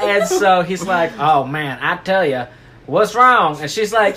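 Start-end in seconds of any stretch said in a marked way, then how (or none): 1.2-3.6 hammed-up Texas dad; country twang, pitched up a little; Texan country accent. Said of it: "he's got a big c-, country accent".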